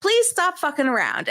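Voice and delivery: exasperated plea. Retold or imitated. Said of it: "this is how mad Giles was".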